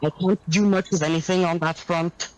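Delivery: muffled bad mic. Real, not acted. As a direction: voice muffled and breaking up. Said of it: "Like, you sound muffled".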